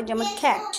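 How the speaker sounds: "cat" said with an open æ vowel; cat with the a sound. Shown as a demonstration. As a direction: say "cat" like "kyat". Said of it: "এখানে এটা এ উচ্চারণ হবে".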